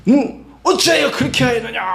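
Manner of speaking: high, strained mock shout; hammed-up angry demand, pitched high; scary father scolding. Frightening father telling off his child, mock shout. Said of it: "막 이렇게 하면서".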